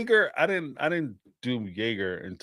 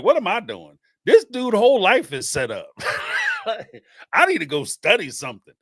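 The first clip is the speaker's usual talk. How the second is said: laughing self-talk; 8 semitones higher, 4 dB louder than usual. Retold or imitated. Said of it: "I'm like".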